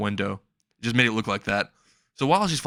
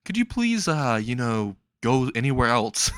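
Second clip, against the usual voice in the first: kindly request. Acted. Captive asking her to leave his room, kindly. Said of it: "he asks her really kindly".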